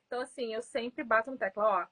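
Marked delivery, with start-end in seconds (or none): none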